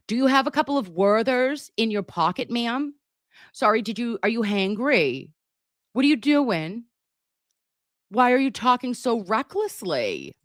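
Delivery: mock concern. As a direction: talk down to her sweetly. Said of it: "Did I ask her".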